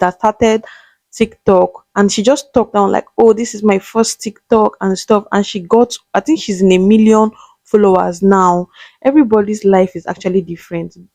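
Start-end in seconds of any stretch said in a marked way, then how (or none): none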